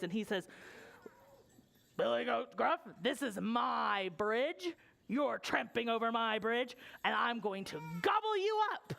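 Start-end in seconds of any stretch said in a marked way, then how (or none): 2.0-2.8 lightly gruff troll calling out. Acted. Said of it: "this troll has kind of a gruff voice". 3.0-8.9 lightly gruff troll threat. Acted. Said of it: "this troll has kind of a gruff voice".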